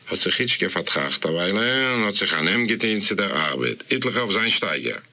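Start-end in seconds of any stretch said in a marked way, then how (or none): none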